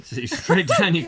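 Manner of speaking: giggling through the words; laughing. Real, not acted. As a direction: laugh while pointing it out. Laughing at the camera angle.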